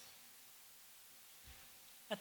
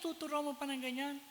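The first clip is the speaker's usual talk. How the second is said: angry in-law; 10 semitones higher than usual. Retold or imitated. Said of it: "Galit na galit".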